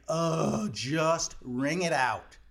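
drawn-out impatient groan; slow, exasperated plea. Retold or imitated. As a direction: drag it out, fed up with waiting. Impatient customer groaning at slow cashier.

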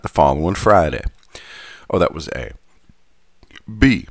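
put-on light Southern gentleman accent; old southern gentleman. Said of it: "going back to my Southern gentleman accent".

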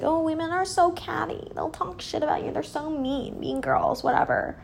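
lightly mocking, high imitation; mimicking critics. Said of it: "People are always like".

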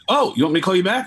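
eager to get off the line; awkward offer. Retold or imitated. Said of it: "I just felt weird".

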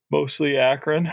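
said through a yawn. Real, not acted. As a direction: yawn while you talk. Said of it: "Are you already yawning?".

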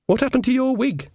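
high little dwarf voice; dwarf Casanunda voice. Acted. Dwarf asking Nanny about her wig, high voice. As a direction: pitch him up as the small dwarf.

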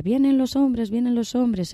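fox howling. Acted. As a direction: raise the alarm like a howling fox. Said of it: "empieza a aullar".

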